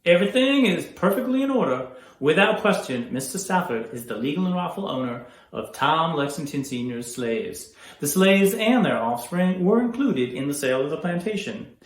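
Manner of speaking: loud, declaimed legal ruling; formal, authoritative. Acted. Lawyer explaining legal ownership of slaves, authoritative. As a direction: project it firmly to the room.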